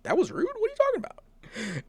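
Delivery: high baffled protest breaking into a laugh; incredulous. Retold or imitated. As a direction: squeak up in disbelief, laughing at the end. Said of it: "And I was like".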